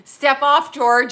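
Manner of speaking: a loud mock "Step off" with a grin; quoting Seinfeld. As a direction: bark the line like a sitcom rebuke.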